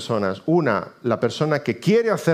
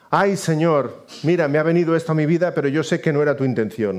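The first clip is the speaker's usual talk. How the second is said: mock plaintive prayer; 3 semitones higher than usual. Believer excusing God in prayer, mock plaintive. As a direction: lament politely to the Lord. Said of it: "no encuentra consuelo en decir".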